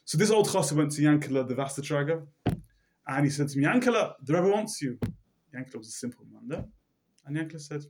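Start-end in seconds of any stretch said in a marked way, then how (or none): 3.6-5.0 high, loud call of a name. Retold or imitated. Old chassid calling Yankele to the Rebbe, raised voice. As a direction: summon him across the shul.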